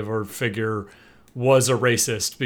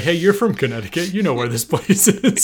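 retold phone plea; 5 semitones higher than usual. Acted phone call asking directions.

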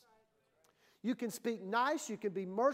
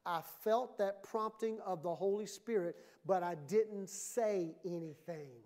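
quiet regret; 4 semitones lower, 4 dB quieter than usual. Acted. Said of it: "you're gonna say".

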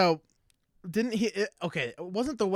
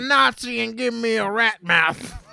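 hammy villain shout; 7 semitones higher, 6 dB louder than usual. Acted. Villain voice riffing.

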